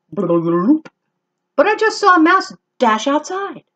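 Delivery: high, slow, odd fish voice. Acted. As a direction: bubble it out slowly. Fish answers Max.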